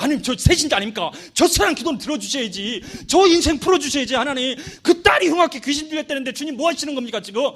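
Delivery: badgering God on someone's behalf; lightly hammed-up impatient elder; frustrated pleading. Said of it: "장로님이 막 답답해가지고".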